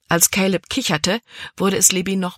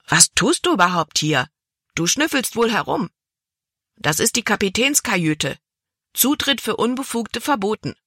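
higher, indignant telling-off; angry scolding; 5 semitones higher than usual. Acted. Cabin boy angrily tells Libby she is snooping in the cabin. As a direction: scold the intruder like a guard. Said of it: "starrten seine blauen Augen sie wütend an".

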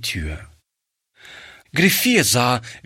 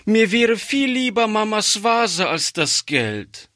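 put-on upset child; 12 semitones higher than usual. Girl begs her grandfather over the sold vase, high upset child voice. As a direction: plead like a distressed child.

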